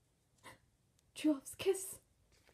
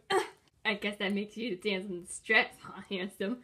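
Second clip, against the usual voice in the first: taunting; 9 semitones lower, 7 dB quieter, faster than usual. Acted. Villain taunting captive prince.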